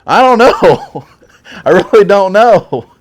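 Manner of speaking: high and loud, laughing through a clueless shrug; high sheepish whine. Retold or imitated. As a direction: squeak out a helpless teen answer. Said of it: "And I was like".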